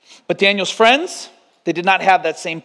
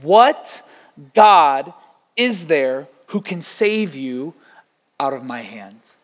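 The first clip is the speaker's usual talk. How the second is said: proud king's challenge, lightly voiced; defiant king; 2 semitones lower, much slower than usual. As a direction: dare anyone to save them. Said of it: "He says".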